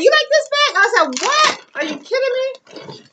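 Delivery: loud, high-pitched shouted exchange; acted-out squeal of disbelief; retold excited shock. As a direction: shout it as a thrilled, disbelieving replay. Shouted replay of bag conversation.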